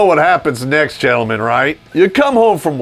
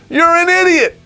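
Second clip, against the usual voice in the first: high-pitched exasperated cry; mock scolding outburst; 13 semitones higher than usual. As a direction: jump up in pitch to berate the fool. Bursts out at naive listener.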